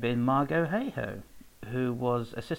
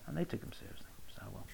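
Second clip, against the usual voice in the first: whispered aside; whispering; 13 dB quieter, faster than usual. Real, not acted. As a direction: whisper it for emphasis. Repeated as a whisper.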